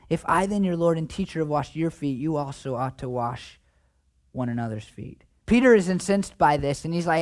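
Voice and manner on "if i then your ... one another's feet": fading to a hush; rereading the verse gently, dropping away; soft reading. Acted. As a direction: let it sink in softly, quieter to the end. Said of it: "let me read it to you again".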